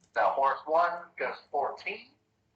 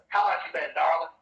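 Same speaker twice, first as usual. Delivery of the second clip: lightly voiced sly goblin; a hint of a smooth-talking goblin; 4 semitones higher, 3 dB louder, faster than usual. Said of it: "the goblin ... says".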